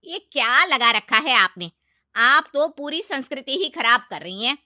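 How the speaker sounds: loud, high lecturing on tradition; indignant aunt-in-law. Acted. Aunt-in-law lectures the mother-in-law on tradition, loud indignant. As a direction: defend tradition hotly.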